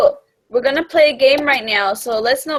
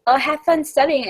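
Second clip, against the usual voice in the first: higher-pitched mocking imitation; annoying mimicry; 5 semitones higher than usual. Imitating someone who walks past the table, lightly mocking. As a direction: mimic someone irritating in passing. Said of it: "it's just so annoying when someone".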